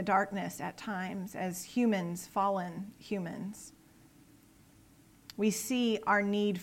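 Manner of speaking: earnest spoken prayer, measured and unhurried; pastoral prayer. Acted. Pastor leading the closing prayer for the church, earnest. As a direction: pray aloud for the whole congregation.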